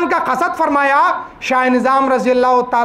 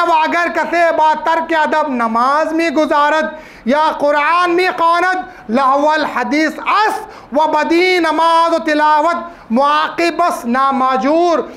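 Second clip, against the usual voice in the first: slow, measured Persian recitation; formal quotation reading; slower than usual. Acted. Preacher quotes a Persian religious text to congregation, slow formal reading. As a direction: read the old text out word by word, stretched.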